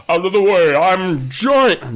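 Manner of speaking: loud, high charging shout; hammed-up action cry; mock giant yell. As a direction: holler it while barrelling through. Acted giant charging at truck.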